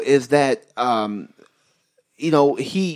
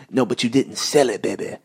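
Dusty Rhodes impression; 3 semitones lower than usual. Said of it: "that's my Dusty person".

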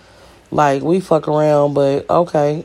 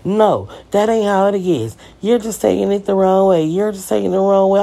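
higher, slightly put-on voice insisting; mocking girlfriend's denial; 5 semitones higher than usual. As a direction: lightly imitate her innocent denial.

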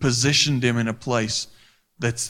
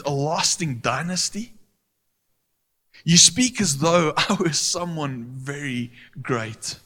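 humble prayer; 2 semitones higher than usual. Retold or imitated. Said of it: "He says".

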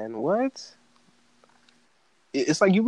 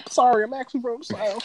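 high, sheepish mock voice; mock confession; 9 semitones higher than usual. Mocking a liberal who admits Southern roots, sheepish and high. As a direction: own up sheepishly, pitched up. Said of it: "They're like".

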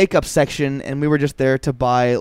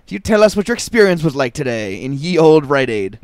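town crier; 2 semitones higher, 4 dB louder than usual. Acted. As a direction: announce it like a medieval herald. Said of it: "like an old school proclamation".

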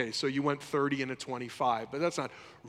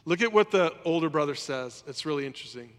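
normal talking voice

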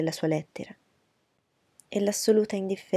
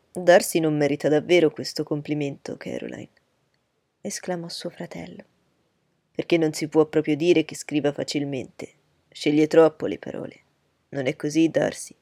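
put-on hearty young gentleman; 2 semitones lower, 6 dB louder than usual. Bingley teasing Darcy before his sister, loud and hearty. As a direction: tease Darcy openly and loudly.

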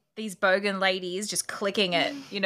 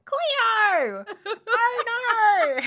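loud, high Aussie wail; high mock-Australian cry breaking into laughter; exaggerated Australian accent; 11 semitones higher, 5 dB louder, much slower than usual. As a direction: call it out like a hammed-up viral Australian clip. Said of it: "I'll be like".

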